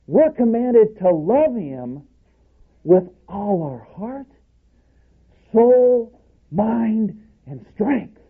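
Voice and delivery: high, slow, swelling preacher's call; preaching at full force. Real, not acted. Preaching the great commandment.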